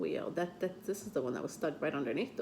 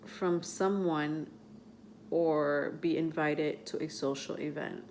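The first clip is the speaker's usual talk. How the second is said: halting read-aloud with long pauses; slow reading. Real, not acted. Reader struggling without her glasses, reading slowly. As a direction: pick through the words slowly. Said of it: "I know I'm reading really slow".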